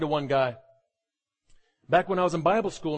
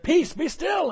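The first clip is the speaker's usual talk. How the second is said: calm rebuke; 10 semitones higher, slower than usual. Acted. Preacher voicing Jesus rebuking the wind, high and calm. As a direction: raise the pitch and let the words ring out. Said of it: "rebuked the wind, said".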